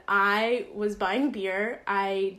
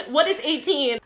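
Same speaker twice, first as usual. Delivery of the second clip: Jeopardy answer; 4 semitones higher, 4 dB louder than usual. Pretend. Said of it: "answering in Jeopardy".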